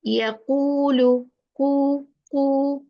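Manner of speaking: "Yaqulu", then "ku" held with round lips; rounded long u. Shown as a demonstration. Teacher tells learners to make lips round, rounded long u. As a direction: stretch a rounded "ku". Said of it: "make your lips round".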